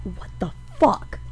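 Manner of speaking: low, unvoiced, baffled, stunned male whisper.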